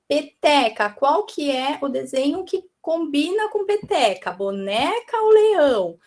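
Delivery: lightly voiced teacher's question, stretching the answer choices; quizzing small children. Shown as a demonstration. Teacher asking children which picture rhymes, lightly playful quizzing. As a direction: offer the choices slowly, with lifted pitch.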